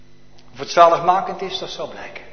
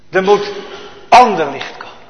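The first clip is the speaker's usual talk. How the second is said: preaching at full force; 5 semitones higher, 9 dB louder than usual. Acted. Preaching sermon climax.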